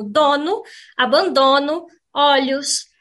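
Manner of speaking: "dono, abandono, olhos" ending in "donu, abandonu, olyus"; "dono, abandono, olhos" with reduced U-like endings; final O as U. Shown as a demonstration. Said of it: "como se fosse U".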